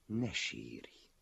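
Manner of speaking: low, mild comforting tone; gentle. A narrator's reading. Master comforts the sobbing man, gently. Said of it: "folytatta szelíden a mester".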